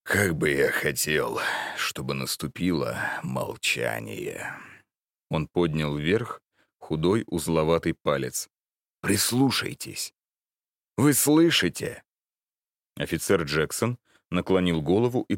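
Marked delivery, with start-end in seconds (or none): 0.0-4.5 put-on very old man. Old man wishes for silence. 9.0-12.0 put-on high, urgent old voice; very old man. Old man urges listening.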